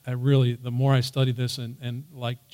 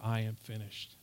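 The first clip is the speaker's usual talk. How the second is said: very soft, voiced murmur; mock whisper; 3 semitones lower, 10 dB quieter, faster than usual. Shown as a demonstration. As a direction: say it low-key, far under your usual volume. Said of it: "He didn't just whisper".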